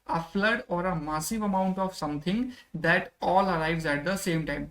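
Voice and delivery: very slow, word-by-word English reading; teacher dictating the definition slowly; slow dictation. Shown as a demonstration. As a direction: read it out slowly so students can follow. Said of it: "teacher reads English definition slowly".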